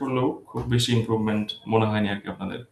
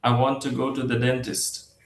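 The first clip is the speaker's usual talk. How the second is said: very slow, every word of "I want to go to the dentist" hit the same; robotic word-by-word even stress, shown as the wrong way; equal stress on every word; much slower than usual. Shown as a demonstration. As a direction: spell out each word evenly, no weak words. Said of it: "এইভাবে বলে না".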